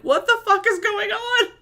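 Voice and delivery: high-pitched bewildered outburst; mock panic. Streamer startled by endless air horns, mock panic. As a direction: retell being totally thrown, voice jumping up.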